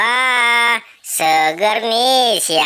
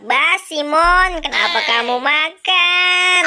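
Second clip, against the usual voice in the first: scolding friend; 9 semitones higher than usual. Acted. Boy scolds Emon over ice cream.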